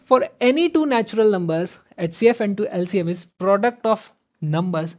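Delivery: "For any two prime numbers P and Q" को बहुत धीमे, ज़ोर से, शब्द-शब्द पढ़ो; slow question reading. Shown as a demonstration. Reads reason statement slowly. (प्रश्न को धीरे-धीरे ज़ोर से पढ़ना)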